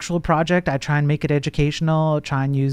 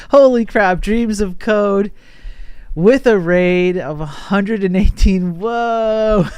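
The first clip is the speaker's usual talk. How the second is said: surprised; 6 semitones higher, 4 dB louder, slower than usual. Real, not acted. Surprise at a big incoming raid.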